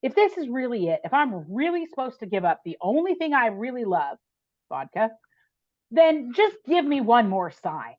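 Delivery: mock defiant ultimatum that slows at the end; demanding of God. Woman screaming a demand at God in her car, retold challenge. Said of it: "I just made this ridiculous demand".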